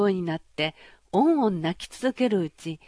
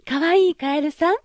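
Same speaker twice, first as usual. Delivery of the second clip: put-on high, loud girlish princess voice, half scornful; a pampered princess, pitched up and bright with surprise; spoiled young princess; 8 semitones higher, 7 dB louder than usual. Princess voiced in fairy tale. (高く大きな声のわがままなお姫様)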